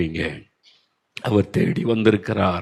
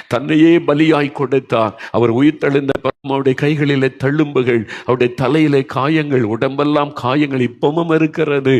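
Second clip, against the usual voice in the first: fervent, raised sermon voice; impassioned preaching; 4 semitones higher than usual. Real, not acted. Preacher telling the weeping that Jesus bore their wounds, impassioned preaching. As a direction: preach it with rising fervour, driving each phrase.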